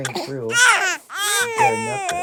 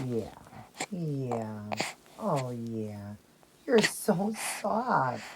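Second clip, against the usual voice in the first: cooing; 9 semitones lower, 10 dB quieter, much slower than usual. Real, not acted. Cooing to the baby doll.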